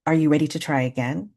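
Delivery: calm mother, even and unruffled; a mild, composed retold question. Mother to her upset toddler after breathing, very calm. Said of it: "said in a very calm voice".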